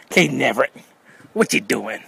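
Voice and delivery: loud call across the yard. Real, not acted. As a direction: call him from far off. Calling out to nephew.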